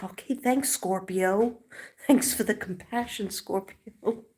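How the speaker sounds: sarcastic thanks. Retold or imitated. Sarcastic retort to daughter.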